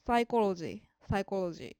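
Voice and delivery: サイコロジー with the コ stressed; stress on first O. Shown as a demonstration. Teacher giving a second -ology example, サイコロジー stressed on コ. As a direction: put the accent on コ in サイコロジー. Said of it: "最初のOにアクセントがあるんですね".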